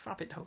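"Rabbit" echoed softly as "frabbit"; "Rabbit" with an added f, quoted back; imitated mispronunciation. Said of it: "What did you call it?".

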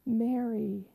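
gentle, quiet, full of mercy; compassionate. Acted. Risen Jesus speaking Mary's name with compassion, quietly. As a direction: call her name with love and mercy. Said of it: "He said it full of compassion and love and mercy".

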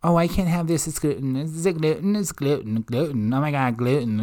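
put-on whining about gluten, repetitive and mumbled; mock bitching. Mimicking a diner who can't have gluten, mock bitching. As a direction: imitate a fussy complainer, stammering over gluten. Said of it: "when you start to bitch about that".

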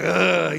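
mimed lifting grunt; drawn-out grunt of a big squeeze; effortful grunt. Retold or imitated. Imitates effort of lifting his dad.

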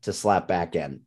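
worn-out, croaky delivery; hoarse voice. Real, not acted. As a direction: voice giving out, rough and strained. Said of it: "my voice is giving out on me".

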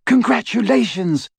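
high delighted squeal. A narrator's reading. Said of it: "Hermione and Fleur both squealed".

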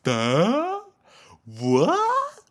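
mock gawping Duh, jumping up high and loud; dumb surprised face. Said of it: "They're just like".

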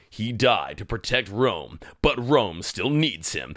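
slow, dramatic movie-trailer read; mock trailer voice. Pitching a silly sequel, slow mock trailer voice. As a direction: intone it like a film trailer narrator.

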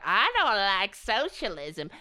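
a hint of a dopey voter; lightly mock a dum-dum voter; mocking voters who are scared of socialism; dumb voter voice. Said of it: "want the American people to be like".

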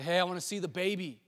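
mildly hammed-up eager visitor at the door; eager calling. Shepherd knocking on Bethlehem doors, eager request.

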